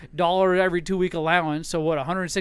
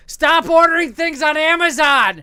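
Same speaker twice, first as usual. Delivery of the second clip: higher, louder, slow scolding order; mock scolding; 10 semitones higher, 8 dB louder than usual. Husband retells his wife's order, mock scolding. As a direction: scold him like a fed-up wife. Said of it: "She's like".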